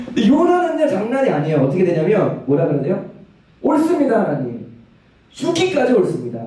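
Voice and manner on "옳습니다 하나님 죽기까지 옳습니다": high-pitched opening, indignant retort; acted stubborn outburst, dropping on the address; defiant anger. Preacher voicing Jonah answering God back, defiant anger. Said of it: "꼭지가 돌았어요".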